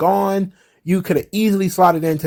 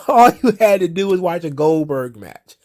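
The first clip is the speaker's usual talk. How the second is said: laughing; 2 semitones higher than usual. Real, not acted. Mocking the booking choice, laughing.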